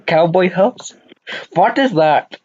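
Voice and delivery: ordinary delivery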